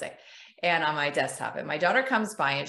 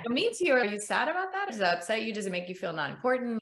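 gentle validating parent; 2 semitones higher than usual. Retold or imitated. Parent gently asking daughter about her feelings, mild warmth. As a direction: coax the child to open up, mildly. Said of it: "instead of saying".

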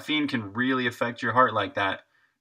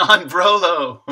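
slow, laughing through "On Brolo"; laughing out the name; 7 semitones higher, 11 dB louder, slower than usual. Real, not acted. Streamer cracking up reading a chat name, laughing. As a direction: burst out laughing as you read it.

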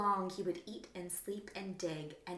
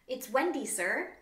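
a touch higher and louder, happy; happily proclaimed; 5 semitones higher, 5 dB louder than usual. Acted. Wendy happily tells the wombat her name, a touch higher. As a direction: beam as you give your name. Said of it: "she happily proclaimed".

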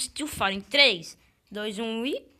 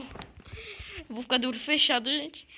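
scared horror game streamer; 3 semitones higher than usual. Real, not acted. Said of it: "Eu tô com muito medo".

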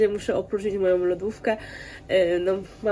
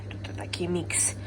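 soft whisper; quiet at night; 7 dB quieter than usual. Real, not acted. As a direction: whisper it, barely voiced. Kids asleep, whispering aside. (cichy szept)

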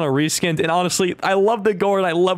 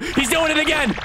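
pitched up in alarm; higher, panicky warning; alarmed outburst; 8 semitones higher than usual. Real, not acted. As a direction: call it out, voice jumping up. Alarmed at repeated suicide bomber.

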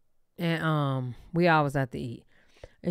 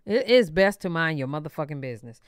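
lower-pitched reminder to oneself; talking to herself; 4 semitones lower than usual. Real, not acted. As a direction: say it low, as advice to yourself. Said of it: "Girl, talking to myself".

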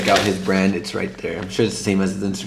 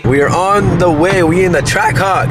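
cracking voice; 6 semitones higher, 5 dB louder than usual. Real, not acted. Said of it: "Your voice".

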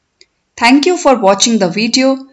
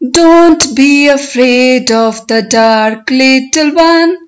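poem recitation. Shown as a demonstration. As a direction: recite it for learners, stretching the words, lifting line endings. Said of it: "I will recite the poem".

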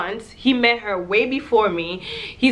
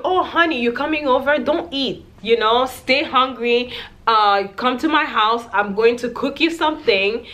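higher, syrupy mock charmer voice; sweet-talking nice guy; 3 semitones higher than usual. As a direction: coax like a smooth-talking fake sweetheart. Imitating sweet-talking nice guys.

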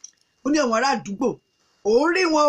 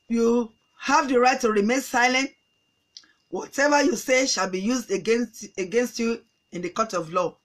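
slow, lower-pitched lightly voiced policeman; measured official caution, lightly acted; police officer; 3 semitones lower, slower than usual. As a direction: recite the rights deliberately, as an officer. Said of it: "báwọn ọlọ́pàá ṣe dé nìyẹn".

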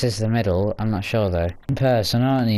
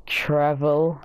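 whisper; 2 semitones higher than usual. Acted. Dramatic time travel announcement.

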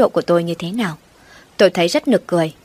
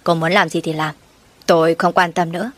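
indifferent. Acted. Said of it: "thản nhiên đáp".

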